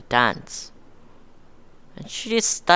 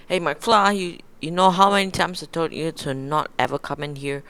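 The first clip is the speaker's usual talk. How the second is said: mock bully shout; 5 semitones higher than usual. Bully Biff confronting Marty.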